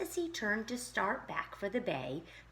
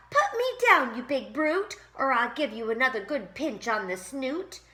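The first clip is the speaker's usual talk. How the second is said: much higher, louder desperate yell; frantic shout; 6 semitones higher, 9 dB louder than usual. A narrator's reading. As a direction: scream it at the dog. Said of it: "cried the crab".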